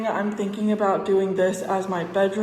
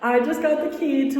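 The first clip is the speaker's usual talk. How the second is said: echoing in an empty room; echoey room; 3 semitones higher than usual. Real, not acted. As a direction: talk in a bare, echoing apartment. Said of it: "it's so echoey in here".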